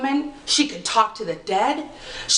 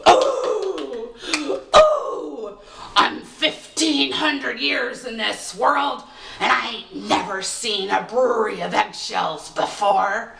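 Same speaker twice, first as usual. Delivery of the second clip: put-on astonished old fairy; slower than usual. Fairy reveals itself, amazed.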